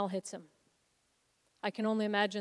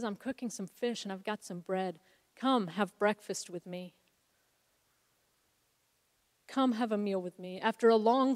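tender invitation. Retold or imitated. Jesus gently invites Peter back.

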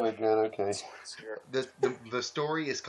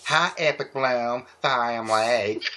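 mock apologetic Pinkie; 5 dB louder, slower than usual. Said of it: "Pinkie apologized".

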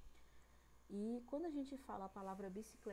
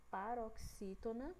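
say-along; slower than usual. Shown as a demonstration. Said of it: "Vamos lá comigo".

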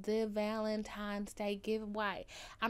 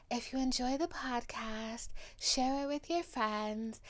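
put-on African accent; 2 semitones higher than usual. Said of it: "my African accent just then".

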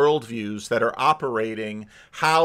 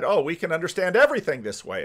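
higher, quick, overconfident claim; mock confidence; 5 semitones higher, faster than usual. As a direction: imitate a naive sudden realization. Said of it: "and we said".

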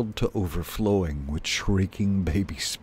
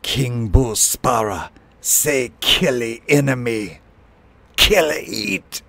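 sparrow king ordering a kill, loud and high; fierce bird tyrant's war cry; shrieked command; 5 semitones higher, 5 dB louder than usual. A narrator's reading. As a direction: proclaim the death sentence, rising to a screech. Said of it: "he shrieked".

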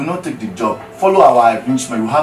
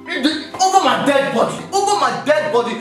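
indignant protest; 6 semitones higher than usual. Acted. Wife furious at husband.

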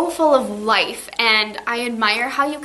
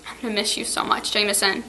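tearful goodbye; 3 dB quieter, faster than usual. Real, not acted. Teacher's tearful farewell to students.

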